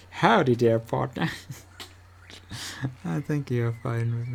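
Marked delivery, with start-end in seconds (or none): 0.1-1.3 put-on American accent. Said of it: "You have an American accent".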